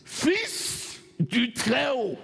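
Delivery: slow, drawn-out demon voice; possessed. Acted. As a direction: stretch it out like a demon. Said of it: "écoute la voix d'un démon".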